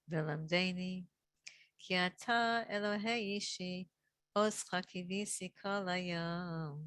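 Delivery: slow, measured Hebrew psalm recitation with drawn-out endings; slow for repeating. Real, not acted. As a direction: say each phrase slowly, leaving room to repeat. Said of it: "I'll try to say the words slowly".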